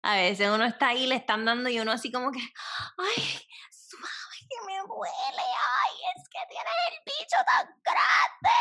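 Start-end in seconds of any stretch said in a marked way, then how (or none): 2.4-8.6 high, breathless fake pleasure; hammed-up moaning. She shows how women flatter a partner, fake moaning. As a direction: whimper and moan, exaggerated.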